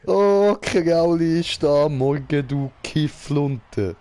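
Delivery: excited greeting. Real, not acted. Greeting friend, hyped.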